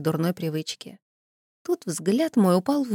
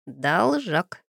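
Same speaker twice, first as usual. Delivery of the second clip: deep bass voice. Acted. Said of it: "пробасила".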